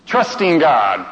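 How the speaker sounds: flat, slow and let down; Trusting God read slowly with a shrug; unimpressed reading. Shown as a demonstration. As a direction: say it like it bores you. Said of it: "Blah, blah, blah, blah".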